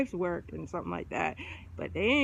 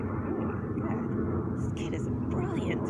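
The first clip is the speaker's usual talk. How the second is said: mock awe; 10 semitones higher, slower than usual. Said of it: "And I'd be like".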